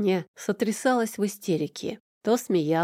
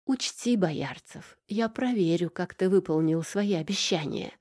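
шипя. Acted. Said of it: "прошипела Горгона".

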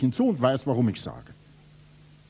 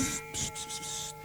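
unvoiced psst; hushing; 11 semitones higher, 10 dB quieter than usual. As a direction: hiss for silence. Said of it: "sei still".

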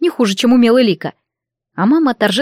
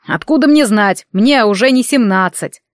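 snapping back. Acted. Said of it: "огрызнулся колдун".

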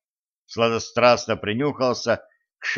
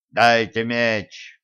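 loud demand; much slower than usual. Acted. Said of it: "громко потребовал".

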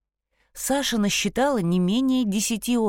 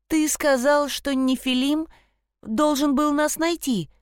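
put-on higher, eager girl's voice; eerie ghost child; 6 semitones higher than usual. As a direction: ask like a puzzled young girl. Sasha questions the stag.

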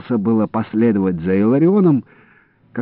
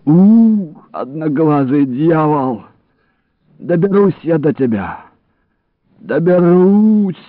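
angry threat; 8 semitones higher, 5 dB louder, slower than usual. Acted. Wounded man vowing revenge.

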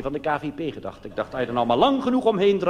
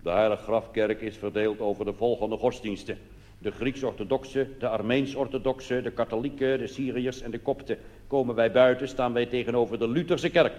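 tour guide reading; 3 semitones lower than usual. Retold or imitated. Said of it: "de reisleider eens vragen of hij dat voorleest".

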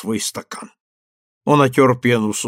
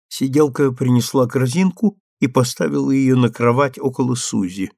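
usual speaking voice

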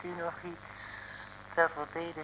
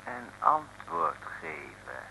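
stern command; 7 semitones lower, 7 dB louder, slower than usual. Acted. Officer barks order at prisoners.

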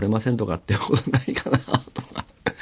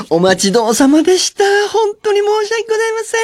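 very high, sugary service voice; overly polite server; 4 dB louder than usual. Retold or imitated. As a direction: gush apologies like a too-sweet waitress. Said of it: "みたいな". (声を裏返した過剰に丁寧な店員)

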